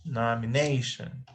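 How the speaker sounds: "nomination" with weight on NA, then falling; stress on third syllable. Shown as a demonstration. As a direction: sound out nomi-NA-tion. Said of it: "The third".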